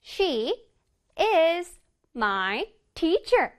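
"She is my teacher" word by word, with pauses; slow, melodic "She is my teacher"; piano-like intonation. Shown as a demonstration. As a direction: play each word of "She is my teacher" as a separate note. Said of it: "피아노 악기 연주하고 있지요".

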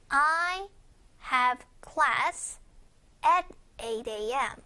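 "I", "have class", "at eight A M", each set apart by pauses; chunked phrasing. Shown as a demonstration. Teacher showing listeners where the sentence breaks, chunked phrasing. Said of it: "끊어가는 느낌을 잘 봐주세요".

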